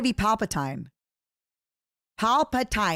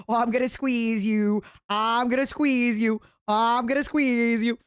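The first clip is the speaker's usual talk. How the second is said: playful squeeze threat. Real, not acted. Playful affection toward chat.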